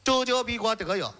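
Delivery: 周周笔管得有 slurred for 针儿尖儿笔管儿; swollen tongue. Shown as a demonstration. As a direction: mangle 周周笔管得有 with a thick tongue. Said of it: "说不了".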